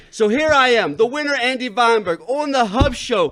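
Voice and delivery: wrestling manager. Acted. Wrestling manager character introduces himself.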